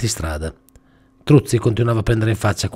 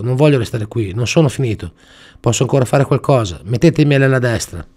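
pleading tyre; 3 semitones higher, 4 dB louder than usual. Acted. Tyre begging.

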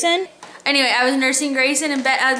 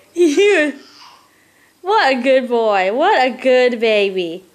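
tender praise; slower than usual. Real, not acted.

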